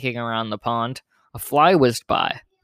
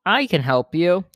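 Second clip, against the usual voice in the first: higher, a bit louder call from the pond; 6 semitones higher, 3 dB louder than usual. Acted. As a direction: call out to the kids, offering help. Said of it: "The voice called out".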